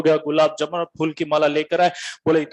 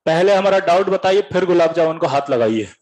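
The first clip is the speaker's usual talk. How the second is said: cheeky demand. Retold or imitated. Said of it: "style में।".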